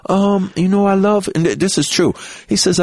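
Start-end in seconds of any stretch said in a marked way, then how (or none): 0.1-1.3 lightly voiced gentle star, a bit higher; a mild high gentle greeting. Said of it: "He comes in".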